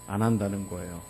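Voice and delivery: ordinary talk, nothing marked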